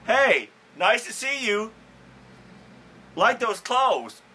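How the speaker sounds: high, loud fake compliment; fake cheerful. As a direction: compliment with hidden irony. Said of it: "I'll be like".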